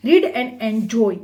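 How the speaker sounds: slow, clear heading read. Shown as a demonstration. Teacher announcing the next section slowly. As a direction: spell the title out slowly for the kids.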